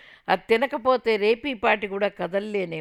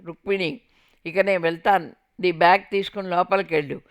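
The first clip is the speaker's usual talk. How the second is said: commanding; 6 dB louder than usual. Retold or imitated. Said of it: "ఆజ్ఞాపిస్తున్నట్టుగా చెప్పాడు".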